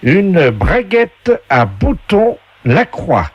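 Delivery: high, slow game show host. Acted. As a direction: announce each prize grandly and slowly. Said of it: "on vous passe tout de suite la voix du jeu".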